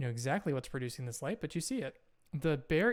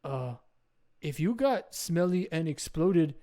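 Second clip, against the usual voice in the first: louder, emphatic simple caveman; caveman Doug; 2 semitones higher, 7 dB louder than usual. Acted. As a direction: caveman vowing to protect a friend. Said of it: "and he says".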